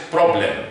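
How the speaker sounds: problem with a full "blem" vowel; wrong pronunciation. Shown as a demonstration. Teacher showing the learners' wrong problem, full vowel. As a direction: say problem ending in a clear "lem". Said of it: "most non-native speakers would pronounce it".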